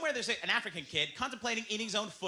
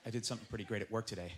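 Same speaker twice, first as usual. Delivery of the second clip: proud husband; 9 semitones lower, 9 dB quieter than usual. Retold or imitated. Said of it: "goes home to their wife and goes".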